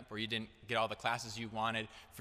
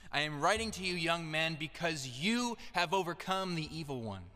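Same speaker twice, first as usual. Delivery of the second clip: raised, declarative preaching voice; emphatic preaching; 4 semitones higher than usual. Acted. Preacher reminding listeners of a powerful truth, proclaimed emphatically. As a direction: proclaim it to the congregation, pitched up.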